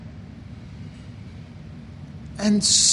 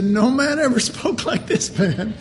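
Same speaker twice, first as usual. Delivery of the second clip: amused quote through a laugh; laughing guards; 4 semitones higher than usual. Retold or imitated. Guards to the high priest, laughing. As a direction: let the laugh break into the quote. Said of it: "And they said".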